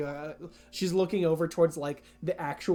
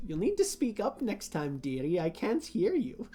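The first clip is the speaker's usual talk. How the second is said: softer, lightly voiced old dear; chiding shopkeeper; 2 semitones higher, 5 dB quieter than usual. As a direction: gently needle someone you can't hear. Shopkeeper chides a silent player.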